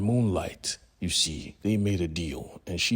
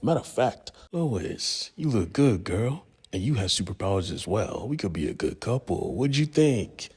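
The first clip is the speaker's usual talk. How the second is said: a hint of sleazy flirting, pitched higher; lightly voiced villain hitting on Lois, higher; 4 semitones higher than usual.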